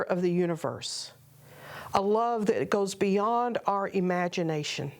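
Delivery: calm, measured meditation guide with long pauses; guided meditation. Acted. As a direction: unhurriedly guide listeners into prayerful stillness.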